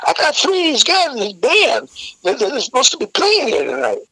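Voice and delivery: high-pitched, flustered driver imitation; flustered explaining. Driver pleads with security guards.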